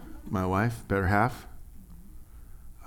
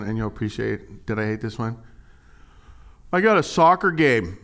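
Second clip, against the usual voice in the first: mock excuse-maker; 4 semitones higher than usual. Mocking churchgoer excuses.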